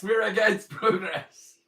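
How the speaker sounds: laughing mock protest.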